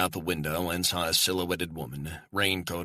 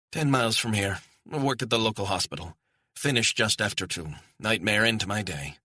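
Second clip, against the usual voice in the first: lightly voiced woman, pitched higher; stranded Scottish woman, chatty; 5 semitones higher, 3 dB louder than usual. Woman tells her host about work, chatty Scottish voice. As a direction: answer conversationally in a higher woman's voice.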